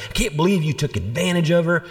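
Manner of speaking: mock accusation, pitched high; mad father. Father accusing the bishop on the phone, mock outraged. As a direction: imitate an outraged dad in a high voice. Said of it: "He was mad, so mad".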